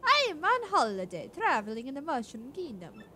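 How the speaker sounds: playful falsetto princess; Princess Peach voice. Acted. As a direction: mimic a gentle princess, lifted pitch. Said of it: "You sound just like Princess Peach".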